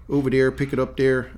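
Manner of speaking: coastal North Carolina Southern, each "there" as "dere"; coastal Southern accent. Shown as a demonstration. Host demonstrates his old accent to friend, coastal Southern accent. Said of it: "it's a very unique accent".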